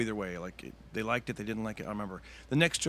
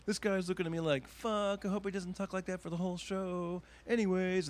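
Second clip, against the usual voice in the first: breaking character aside; 8 semitones higher than usual. Retold or imitated. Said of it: "break character and be like".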